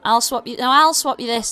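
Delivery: high, fast goblin pitch; goblin trader. Acted. Goblin offering the party a trade, high and fast. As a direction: rattle it off like a pushy little goblin. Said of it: "this one goes".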